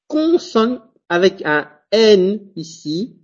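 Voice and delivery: consonne with a crisp s; teaching the s sound. Shown as a demonstration. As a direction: consonne avec la consonne bien nette. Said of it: "on prononce s".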